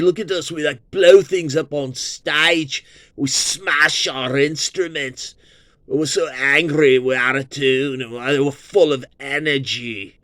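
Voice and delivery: hint of a Cockney rocker; mock rocker voice. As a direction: brag like a cheeky band. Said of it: "the Who are like".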